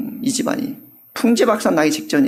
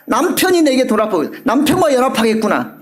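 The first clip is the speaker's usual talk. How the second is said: hopeful Leah; 5 semitones higher than usual. Acted. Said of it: "이런 말이야".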